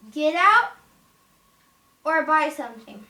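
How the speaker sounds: mock-angry shout; bossy witch. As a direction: play a witch throwing out a customer. Acted witch ordering customer out.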